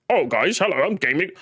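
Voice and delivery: lightly voiced mock Gaming Rift, quick; a quick half-hearted send-up of Gaming Rift; impression of Gaming Rift. Mocking the rival's voice, quick light impression. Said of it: "this is my impression of Gaming Rift".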